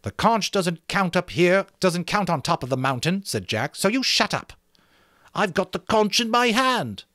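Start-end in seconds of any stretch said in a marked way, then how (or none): 0.0-3.2 Jack voice. A narrator's reading. 3.8-4.5 Jack voice. A narrator's reading. 5.3-7.0 Piggy voice. A narrator's reading.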